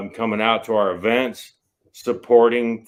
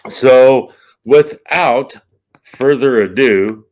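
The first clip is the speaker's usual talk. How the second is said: dramatic announcer buildup; 7 dB louder, slower than usual. Pretend. Building to introduction.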